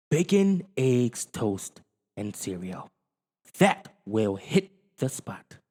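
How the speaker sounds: lightly voiced eager dad listing breakfast; hungry Willie. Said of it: "he said to himself".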